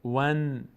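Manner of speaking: "ون" closed on the n; syllable drill. Shown as a demonstration. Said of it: "واو میچسبه به نون".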